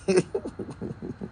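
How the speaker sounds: soft, high breathy chuckle; soft laugh. Real, not acted. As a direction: laugh quietly to yourself. Amused after telling viewer say bonsoir.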